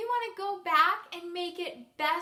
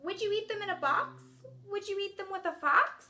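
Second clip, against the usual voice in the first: tag; 3 semitones higher than usual. Shown as a demonstration. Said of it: "he looks happy".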